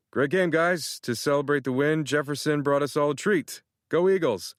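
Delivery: bright, rallying coach cheer; rally the team after the win; cheerful pep talk. Acted.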